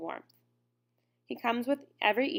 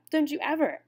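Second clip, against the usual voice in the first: angry shout; 7 semitones higher, 4 dB louder than usual. A narrator's reading. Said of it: "I am sorry for shouting".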